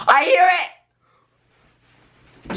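loud, high, excited cry; thrilled outburst. Real, not acted. Vlogger hearing the music, thrilled and high. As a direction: burst out high and loud with delight. Music suddenly audible in earbuds.

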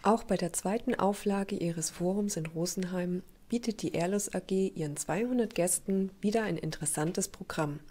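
scripted TV report narration; measured, informative broadcast read; news voice-over. Acted.

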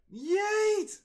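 cartoonish victory shout; yeet shout. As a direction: fling it with a gleeful scream. Hurling again, hyped.

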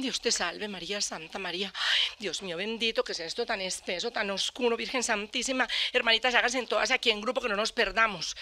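lightly voiced nuns, quiet and fearful; hushed nun prayer. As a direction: pray under your breath like a frightened nun. Nuns praying in the woods.

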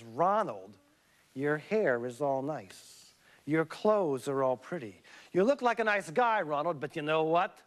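sweeten it then drop the insult; mock-sweet put-down. Elizabeth retorting to Ronald.

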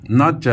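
ਨ ਚ as two distinct syllables, never ਨਚ; ਨ ਚ separated. Shown as a demonstration. Teacher correcting students to split ਨ ਚ apart. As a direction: say ਨ then ਚ with a clear break. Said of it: "ਇਹਨੂੰ ਇਕੱਠਾ ਕਰ- ਨਚ ਨਹੀਂ ਬੋਲਣਾ".

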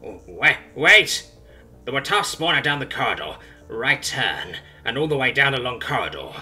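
loud, frantic begging creature; broken creature begging Simone for mercy, panicked; desperate pleading. Acted. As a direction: beg for your life, frantic. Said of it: "it pleads".

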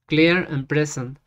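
slow, measured repeat after a model; deliberate Spanish-accented English dictation; careful pronunciation practice. Shown as a demonstration. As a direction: dictate it slowly, word by word. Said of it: "volverle a dictar hasta que me salga bien la pronunciación".

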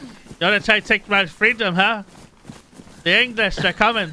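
lightly hammed-up freedom-fighter cry; William Wallace. Gamer teasing a friend bound for Glasgow, mock William Wallace. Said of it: "a really good William Wallace impression".

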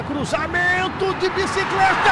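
rising excitement. Real, not acted. Goal build-up.

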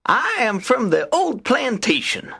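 high-pitched friendly rabbit voice; Brer Rabbit. A narrator's reading. Rabbit chats to the silent tar baby, high and friendly. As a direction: introduce yourself as a high-voiced little rabbit. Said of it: "said Brer Rabbit".

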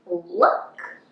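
bright high call; little mouse calling out; excited look. Acted. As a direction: grab their attention. Violet spots something.

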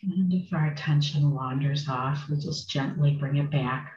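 unhurried meditation guidance with long pauses; guided meditation. Acted. Meditation teacher settling a group into sitting, guided meditation. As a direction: guide them gently, phrase by phrase, leaving space.

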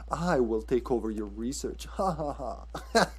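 lightly hammed-up villain with slow laugh; half-laughing parody of a gloating villain; mock villain line. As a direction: imitate a badly acted takeover speech, ending in a drawn-out laugh. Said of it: "Yeah, that intonation".

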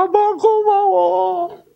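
high, drawn-out mock wail; put-on sobbing thank-you, slow and high-pitched; imitated tearful child. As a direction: imitate a crying daughter, stretched and very high. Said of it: "얘가 막 우는 거야".

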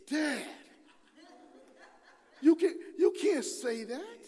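scolding daughters. Retold or imitated. Daughters scold their dad for his word, mock-shocked and loud. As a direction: play the daughters telling Dad off, half laughing.

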